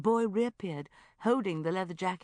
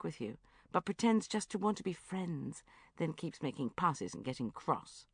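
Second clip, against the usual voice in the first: Tom's voice; 3 semitones higher, 4 dB louder than usual. Acted. Tom lists definitions.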